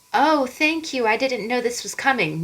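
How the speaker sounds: mild mock surprise, lifted on the oh; a light, caught-off-guard thank you; pleasantly surprised thanks. Someone handed a surprise reward, mildly surprised. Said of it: "that feel good of like".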